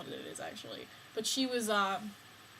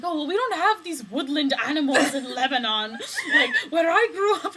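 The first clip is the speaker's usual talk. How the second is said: put-on mild French accent; 5 semitones higher, 10 dB louder than usual. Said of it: "she's like".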